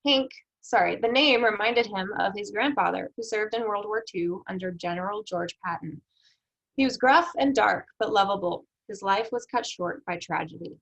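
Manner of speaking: lively read-aloud of a sample text. Acted. Teacher reading a sample paragraph to students, read-aloud voice.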